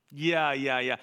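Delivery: low, dismissive brush-off; sarcastic. Shown as a demonstration. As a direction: wave it away with dry disbelief. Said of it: "this is very sarcastic".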